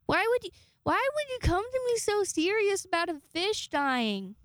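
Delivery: exasperated disbelief. Real, not acted. Exasperated rant about roommate.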